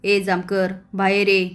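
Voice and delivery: loud call, the last words loudest; mock yell at the police station; retold shout. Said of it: "आप्पा ओरडतात".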